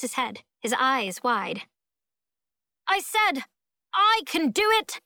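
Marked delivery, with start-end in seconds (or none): 2.9-5.0 high, loud insistence; determined shout. A narrator's reading. Boy repeats his offer to Rosa, shouting. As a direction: shout it out, pitched way up. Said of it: "he shouts at Rosa".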